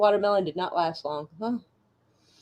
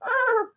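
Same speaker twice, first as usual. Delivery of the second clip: mock horse noise; 13 semitones higher than usual. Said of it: "whoever goes".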